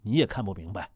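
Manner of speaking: 压低声音，像地下工作者递暗号; 低声神秘地交代任务; 悄悄话. Pretend. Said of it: "咱们说话小声点". (压低嗓音的秘密交代)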